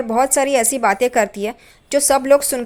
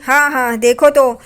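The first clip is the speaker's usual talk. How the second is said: a louder, mildly heated jab; retold angry outburst; 4 dB louder than usual. Aunt lashing out at Saili over her fake concern, mildly angry. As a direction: snap back at her with mock indignation. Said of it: "काकू चढ़ जाती है साइली पे".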